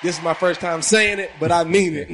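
loud, high, pumped-up host energy; hype podcast intro. Acted. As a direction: fire up the crowd like a hype man. Hyped podcast intro to listeners.

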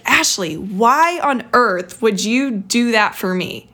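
retelling a dad's exasperated scolding, slowly stressed; mildly mad, drawn-out imitation of a cross parent; mock angry dad. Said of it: "He was so mad at me".

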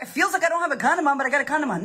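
mock excuse. Mimics someone's excuse about condom.

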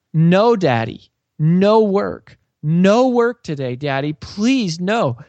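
put-on high, slow pleading child voice, teary; tearful little girl. Little Haven begging her daddy not to go to work, high tearful child plea. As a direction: beg like a toddler about to cry.

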